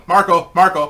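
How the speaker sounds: loud pool-game call, imitated; acted-out shout from a swimming game. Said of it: "hearing us yelling out Marco and Polo".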